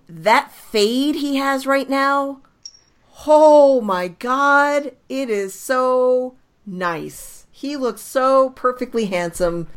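fangirling over the haircut, drawn out; swooning. Real, not acted. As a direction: gush over him slowly. Gushing over a player's haircut.

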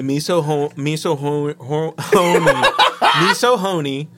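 lightly done mock Asian accent, stumbling and laughing; a half-hearted, giggling mock Asian accent; offensive mock accent. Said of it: "in a very offensive accent".

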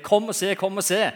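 high, loud excited call to a colleague. Retold or imitated. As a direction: shout it across the room to a coworker. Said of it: "roper til en kollega og sier".

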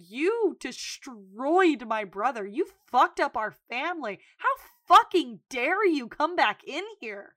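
slow, emphatic acted outrage; big sister telling-off. Sister scolding woman who hurt her brother, big sister telling-off. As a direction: lean hard into every accusation. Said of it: "big sister moment".

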